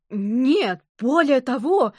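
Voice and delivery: indignant loud exclamation; a coach topping her own story; exclaiming. A narrator's reading. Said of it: "воскликнула тренерша". (громкое возмущённое восклицание)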